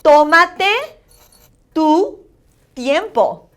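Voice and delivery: TÓmate loud and rising, pauses before "tu" and "tiempo"; word-by-word model of "Tómate tu tiempo", first syllable stressed; accent on the O. Shown as a demonstration. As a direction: elevate the O in "Tómate", let "tiempo" fall. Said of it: "you're gonna elevate your sound more".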